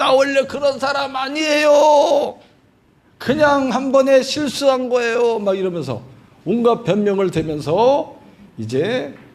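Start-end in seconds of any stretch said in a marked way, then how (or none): 0.0-5.4 high, tearful, crying pleading voice. The speaker acts out a soul cast out and making excuses, acting out tearful pleading. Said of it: "막 울면서 막 제발 나를 여기서 건져주세요".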